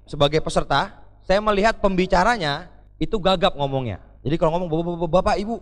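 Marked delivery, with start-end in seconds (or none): 4.7-5.6 stuttering speaker. Retold or imitated. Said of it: "rada-rada gagap gitu".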